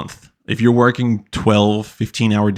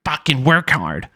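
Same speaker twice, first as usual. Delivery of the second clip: pushy mock motivational speaker, rising higher as he goes; mocking hustle guru; 5 semitones higher than usual. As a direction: parody a cursing hustle coach pep talk. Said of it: "So he's like".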